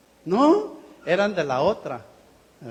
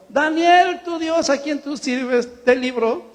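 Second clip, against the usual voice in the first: rey asustado llamando más agudo y fuerte; rey espantado; 5 semitones higher, 3 dB louder, slower than usual. Retold or imitated. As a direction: grita el nombre con asombro. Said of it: "el rey, espantado". (el rey espantado llama a Daniel en el foso)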